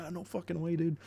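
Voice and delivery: 1 excited disbelief. Retold or imitated. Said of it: "He's like".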